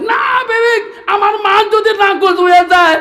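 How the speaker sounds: high, loud insistent shout at his wife; husband shouting down his wife. Acted. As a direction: bellow it so she can't argue.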